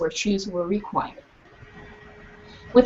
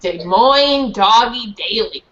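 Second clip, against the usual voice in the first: slow repeat; 3 dB louder, slower than usual. Shown as a demonstration. Teacher repeats slowly.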